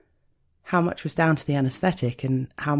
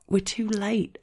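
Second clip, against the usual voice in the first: panicked; 7 semitones higher, slower than usual. Acted. Realizes numbness wore off, panics.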